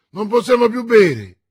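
forte e acuto, protesta; grido ubriaco. A narrator's reading. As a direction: sbraita senza vino. Athos ubriaco grida. (Athos ubriaco si lamenta del vino, gridando)

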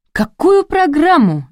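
high, drawn-out amazed question; astonished. A narrator's reading. Narrator questions Rina about the programme, astonished. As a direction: ask in slow, high-pitched surprise. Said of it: "изумилась я".

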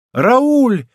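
high, delighted-sounding call; bright exclamation, pitched well up; exclaiming. A narrator's reading. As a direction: call out the name in a rising cry. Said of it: "воскликнула Монтале".

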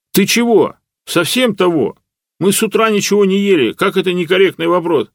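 high, loud hungry outrage; indignant. A narrator's reading. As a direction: scold the stubborn machine. Lyokha shakes fist, hungry. (возмущённо, громко, грозя кулаком)

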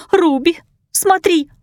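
high, whining plea; whimpering. A narrator's reading. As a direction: whimper in fear for her friend. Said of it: "захныкала Марта".

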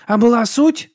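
loud high grumble; grumbled. Acted. Vigga grumbles at the monk, loud and high. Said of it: "буркнула Віга".

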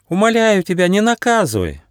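high, loud desperate plea; pleading. A narrator's reading. Auka on his knees begs Nyufa not to punish him. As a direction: beg on your knees. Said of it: "взмолился Аука".

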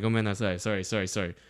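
mumbly mock-sheepish sorry, imitating; retold apology. Friend retelling his apology to the dad, soft and low. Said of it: "I said sorry in Japanese".

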